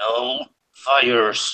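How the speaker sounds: mean, nasty-sounding voice. Player voicing a character staring down the halfling, mean voice. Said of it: "with a mean voice".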